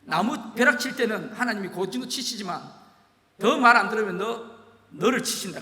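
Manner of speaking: put-on an old pastor lays down the law; stern warning. The pastor warning the defiant young man, stern. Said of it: "이렇게 말씀하시면서".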